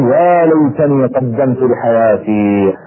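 slow, drawn-out cry of regret; regretful lament. Retold or imitated. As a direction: stretch out "يا ليتني" slowly, mourning the lost chance. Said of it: "بدأ بعضهم يصيح ويقول". (رثاء بطيء ونادم)

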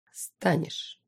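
soft menacing single word; quiet threat. A narrator's reading. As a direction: lean in and threaten softly. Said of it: "угрожающе подался вперёд".

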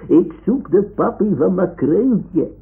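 high, loud call of the customs man. Pretend. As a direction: call out while searching the house. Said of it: "en roept". (luid roepend)

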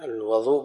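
الوضوء said "al-waḍū'", with a after the و; fatha on the wāw. Shown as a demonstration. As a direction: give الوضوء an open short a: al-wa-ḍū'. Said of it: "بالفتح يقال للماء".

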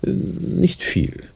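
laughing it off. Acted. Doctor laughs off her question.

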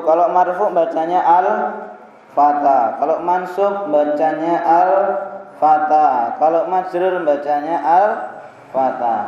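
al-fata read slowly, same ending in all three cases; teacher reads al-fata in marfu, mansub and majrur cases alike; al-fata said the same each time. Shown as a demonstration. Teacher shows students al-fata never changes, said slowly. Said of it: "Apakah tampak adanya perubahan?".

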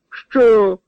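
loud, high astonished "Що?"; bug-eyed disbelief in one word. A narrator's reading. Priest stunned at being named cook, loud astonished outcry. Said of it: "вибалушився священик".

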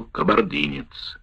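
ordinary delivery, nothing marked

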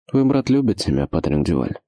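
menacing villain question; low and sinister, dropping at the end; ominous voice. Acted. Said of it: "страшным, даже зловещим голосом".

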